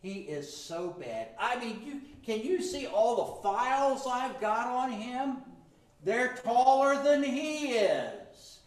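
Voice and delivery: a light gloating accuser voice; hammed-up prosecutor listing the files; Satan prosecuting. Satan boasting to the judge about his files.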